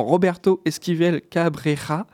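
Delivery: "Roberto Esquivel Cabrera" said slowly, every R trilled Spanish-style; "Cabrera" with a rolled, trilled R. Shown as a demonstration. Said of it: "si je sais toujours bien rouler les R".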